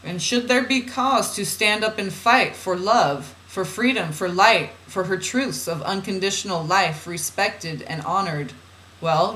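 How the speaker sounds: measured, deliberate spiritual reading; oracle reading. Acted. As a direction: read it out as solemn guidance. Reads channeled guidance aloud.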